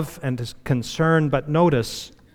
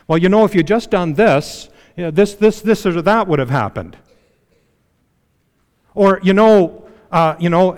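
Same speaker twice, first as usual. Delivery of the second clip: hammed-up know-it-all husband, a bit louder; mock pontificating husband; 2 semitones higher, 4 dB louder than usual. Husband lecturing his upset wife, mock pontificating. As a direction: lecture her with easy fixes, half-mocking. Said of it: "to start pontificating".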